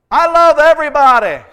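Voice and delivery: high, loud laughing cry; forced loving. Pretend. Preacher mocking his sudden switch to love, high and laughing. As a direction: burst out loving everyone through laughter.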